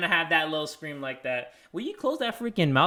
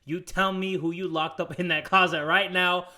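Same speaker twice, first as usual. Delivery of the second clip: imitating the boy; slower than usual. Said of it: "He said".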